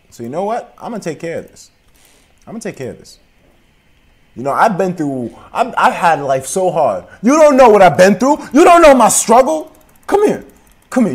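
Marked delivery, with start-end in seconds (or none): 4.3-11.1 high, loud mock wail about his struggle; hammed-up anguish. Squatter wailing his hard life to villagers. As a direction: ham up the tragic rant.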